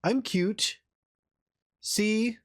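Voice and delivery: cute little Avali voice. Pretend. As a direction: play the tiny cute space bird.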